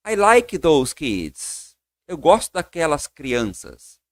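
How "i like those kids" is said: put-on I like those kids, very slowly; slow model phrase. Shown as a demonstration. Teacher slowly models a phrase for students. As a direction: stretch every word. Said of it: "Eu falo".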